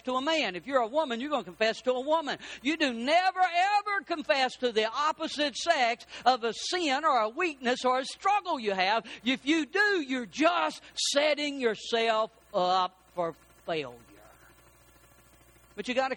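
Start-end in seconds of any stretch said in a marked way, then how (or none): 2.6-14.0 emphatic warning. Acted. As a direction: drive home the never. Preacher warns congregation, shouting.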